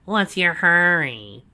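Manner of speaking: loud, high, slow gloating; proud villain boast. A narrator's reading. Snively proudly showing Donovan the cell, loud and slow. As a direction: savour every word of the boast.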